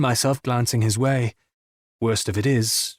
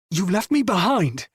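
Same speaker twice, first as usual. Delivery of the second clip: raging shout at his friend; 7 semitones higher than usual. Acted. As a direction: hurl it at him, furious. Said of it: "The shout echoes in the rafters".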